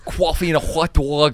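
exaggerated New York "cwoffee" vowels; hammed-up New York street order; New York accent. Host practising the caller's vowels, New York accent. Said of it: "trying to do New York accents".

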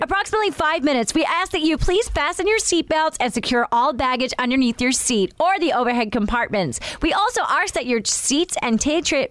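brisk American cabin announcement; American accent, racing the autocue. Acted. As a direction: rattle off the safety spiel in an American accent. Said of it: "you're doing American".

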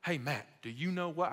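put-on half-hearted country good old boy accent. Preacher imitating his chicken-farmer counselor, shaky good old boy accent. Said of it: "someone with this accent".

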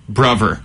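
"bruvver" with th as v, slow. Shown as a demonstration. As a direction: say "bruvver" with a v in place of th. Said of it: "brother will be bruvver".

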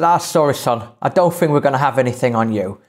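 lightly put-on Irish accent. Teller quotes the man turning to Hoos, Irish accent. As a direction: imitate an Irishman's mock apology. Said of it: "I apologise for the accent".

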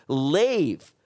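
one drawn, firm order; mock stern dismissal; retold telling-off. Comic sending the drunk girl away, retold telling-off. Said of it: "I start teeing off with this girl".

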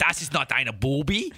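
put-on slow German accent. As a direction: lean into a hammy German, slowly. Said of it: "gets you into the zone".

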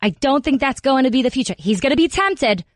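Jersey Italian mom on the radio; chatty New Jersey mother voice; New Jersey mom accent. Acted. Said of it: "This is exactly how she sounds".

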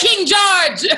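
loud laughing call of King George; laughing shout. Real, not acted. Friends joking about the mother's hometown, laughing loud shout.

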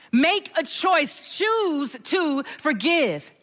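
slow, weighted exhortation; slow emphatic. Acted. Pastor urging the congregation to forgive, slow. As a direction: press each word home. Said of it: "preacher exhortation".

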